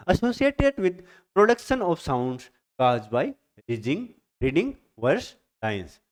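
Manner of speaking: reading a definition aloud very slowly; slow, drawn-out textbook read; slow dictation reading. Shown as a demonstration. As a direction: spell it out slowly for students to note down. Teacher reads definition aloud.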